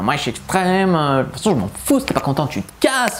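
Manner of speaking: put-on a touch of a snotty girly voice; airhead voice. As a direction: toss it off like a girl who doesn't care. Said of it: "je fais des voix de conne".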